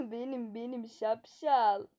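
laughing reveal. Acted. Prankster reveals herself laughing.

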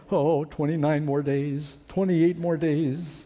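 slow, weary countdown of days; dreading countdown. Retold or imitated. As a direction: drag out each number with dread.

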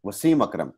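वसीम अकरम with the weight on the second syllable; Punjabi-style stress on the second syllable. Shown as a demonstration. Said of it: "हम normally second place पे stress करते हैं".

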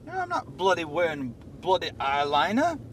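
light fake British protest; fake British accent. Boss denying eyeliner to colleague, fake British accent. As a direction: deny it in a put-on British accent. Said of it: "a little early for the fake British accent".

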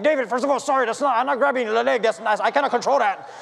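high, stammered excuse; flustered self-defence, retold for laughs; acted frantic apology. Acted frantic apology while cramping.

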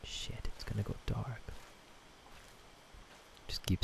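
scared whisper; hushed and tense. Real, not acted. Scared whisper while playing.

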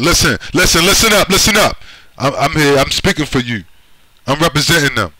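hammed-up loudmouth grabbing the crowd's attention; mock self-appointed leader. Mocking a self-appointed spokesman.

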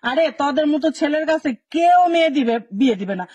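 put-on a sharp outburst at lazy boys; scolding shout. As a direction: shout the rebuke out. Scolding lazy young men, shout heard. (ধমক দিয়ে চিৎকার)

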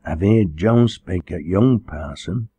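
slow, mildly hesitant dialect; a touch of timid faltering, slowly. Acted. Shy girl to the visiting parson, mildly faltering. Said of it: "she faltered".

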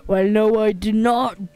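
put-on loud, faltering British accent; badly faked British denial. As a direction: attempt a British accent and fumble it. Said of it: "I'm so bad at doing a British accent".

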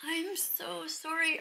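slow, drawn-out quoted apology; tender imitation, stretched out; tearful apology. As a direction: repeat the apology slowly, moved by it. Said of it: "When she says to the cow".

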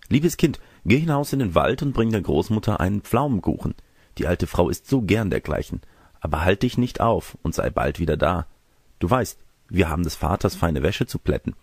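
a hint of a kindly instructing mother; mother instructing daughter. Mother sends girl to grandmother, lightly voiced maternal instruction.

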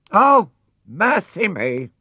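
high slow shocked cry; startled gasp. A narrator's reading. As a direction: gasp in alarm at the window. Housekeeper startled at window.

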